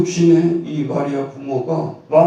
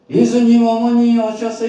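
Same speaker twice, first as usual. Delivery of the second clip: 훨씬 높고 크게 부르며 외치기; 군중이 예수님을 부르듯 크게 외쳐; 외치는 소리; 9 semitones higher, 5 dB louder than usual. Retold or imitated. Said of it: "이렇게 막 이렇게 소리치니까". (크게 외치는 목소리)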